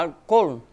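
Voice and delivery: álcool split as al-COL, Spanish-style; álcool with the second syllable stressed, al... COL; stress on final syllable. Shown as a demonstration. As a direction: land hard on the end of álcool: COL. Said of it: "é o col".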